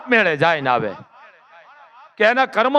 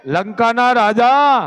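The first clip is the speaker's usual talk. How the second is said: drawn-out rebuke of a proud king; Mandodari rebuking; 4 semitones higher, slower than usual. Acted. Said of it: "Mandodari જવાબ આપ્યો". (ધીમો, ઊંચો ઠપકો)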